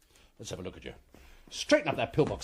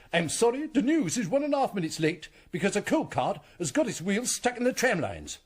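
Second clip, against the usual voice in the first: mock announcer; 6 semitones higher than usual. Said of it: "if an announcer said".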